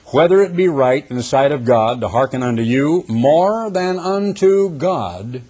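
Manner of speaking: preacher declaiming Scripture; emphatic Scripture reading. Acted. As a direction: build toward the final words of the verse. Reads Scripture aloud emphatically.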